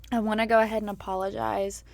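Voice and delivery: slightly hoarse, worn-out throat. Real, not acted. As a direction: talk through a throat sore from screaming. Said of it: "I've got kind of a hoarse voice".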